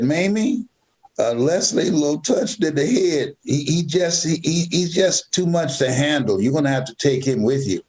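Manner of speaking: mildly acted exasperated complaint; exasperated neighbors. Neighbors refusing to keep the boy, mock exasperation.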